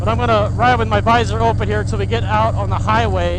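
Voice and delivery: muffled through a full face helmet; talking into a mic in the cheek pad; inside a helmet. Real, not acted. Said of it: "inside of the helmet here, which I'm talking through".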